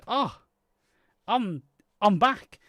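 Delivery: slow voiced hedgehog. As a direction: drag out the hedgehog's return. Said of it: "He goes".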